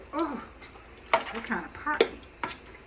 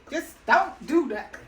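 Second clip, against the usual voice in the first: stern doctor; 4 semitones higher, 4 dB louder than usual. Retold or imitated. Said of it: "The doctor was like".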